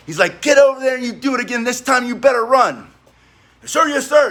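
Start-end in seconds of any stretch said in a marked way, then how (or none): 0.4-2.9 fast, higher mock bark of a furious captain; captain cussing out. Captain cussing out a recruit, mock furious bark. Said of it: "he starts cussing me out real bad". 3.6-4.3 sharp higher "Sir, yes, sir"; recruit's reply. Retold or imitated. Recruit answering the angry captain, sharp barked reply.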